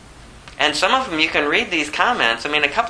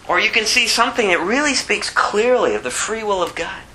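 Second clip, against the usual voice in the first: normal talking voice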